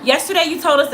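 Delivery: a touch of Kat's upset voice; imitating Kat. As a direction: play the upset employee reporting trouble. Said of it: "this is how Kat talks".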